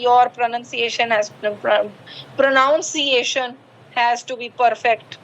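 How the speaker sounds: plain Indian-accented English, "pronounciation"; wrong-way accent demo. Shown as a demonstration. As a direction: demonstrate the unwanted Indian accent. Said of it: "अब मैं इसको ऐसे भी बोल सकती हूँ".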